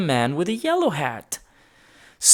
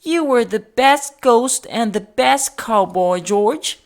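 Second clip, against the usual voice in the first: higher, kindly lady voice; Mrs Gray's voice; 8 semitones higher, 5 dB louder than usual. A narrator's reading. Mrs Gray offering George dress-up clothes, in a kindly voice. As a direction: voice her as a gentle older lady. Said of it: "said Missus Gray".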